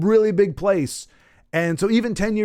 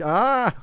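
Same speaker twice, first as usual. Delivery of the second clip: wince; 6 semitones higher than usual. Shown as a demonstration. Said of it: "biting on a fork with your back".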